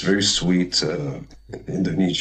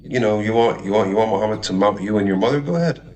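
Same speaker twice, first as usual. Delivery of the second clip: imitated goading, pitch jumping up on the jabs; mock bashing; 3 semitones higher than usual. Host bashing a girl with doubts, imitated scornful goading. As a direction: lightly mimic a host egging someone on with scorn. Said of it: "he bashed her, like".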